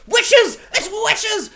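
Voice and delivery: very high, loud shriek of witches. Retold or imitated. Brother warning the family about witches, a high shriek. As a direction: scream the warning at everyone. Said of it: "his brother is like".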